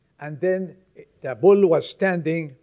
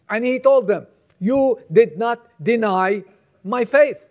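raised, emphatic preacher's delivery; forceful preaching; 3 semitones higher, 6 dB louder than usual. Acted. Preacher urging believers not to be closet Christians, forceful. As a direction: drive it home to the congregation in punched phrases.

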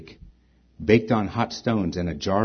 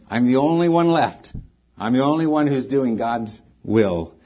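self-pitying; 3 semitones higher, 4 dB louder than usual. Retold or imitated. Preacher mimics Elijah's self-righteous pity party, raised. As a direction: play Elijah feeling sorry for himself. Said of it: "self-righteous pity party".

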